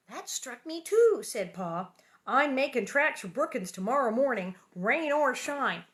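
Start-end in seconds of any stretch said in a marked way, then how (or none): 0.1-1.2 Pa agreeing. A narrator's reading. Pa answering in story. 2.3-5.8 determined Pa. A narrator's reading. Pa's firm resolve in story.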